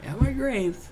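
high, airy ghost voice; ghostly voice. Pretend. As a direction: call out like a ghost from the grave. Joking voice from the grave.

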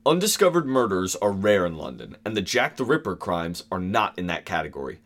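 slight stuffy Victorian officer voice; lightly voiced official. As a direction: read like a stiff memoir. Reading quote in deeper voice.

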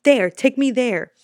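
loud, insistent command; retold urgent order. Tourist to the cab driver, loud insistent pointing. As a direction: jab the words at him loudly. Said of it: "and I'm like".

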